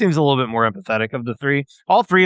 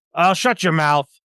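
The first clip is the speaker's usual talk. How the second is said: rude, scolding lizardfolk creature voice; 4 semitones higher than usual. Voicing a silent lizard folk captor snapping at a prisoner: rude lizard folk captor voice. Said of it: "the lizard folk that hasn't spoken up yet will turn around and go".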